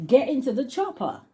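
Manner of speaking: put-on silly Austrian accent, high and playful; Arnold Schwarzenegger. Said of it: "do that silly accent".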